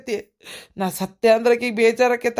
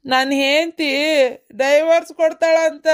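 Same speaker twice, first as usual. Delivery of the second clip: ನನ್ ಹೆಂಡ್ತಿ divorce ಕೊಡ್ತಾಳಂತ said again higher, with stress on divorce; higher, emphatic repeat for a listener who missed it; louder repeat; 5 semitones higher than usual. Acted. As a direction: repeat it up high, pressing on divorce so she hears. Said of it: "ಏನಂತಂತ?".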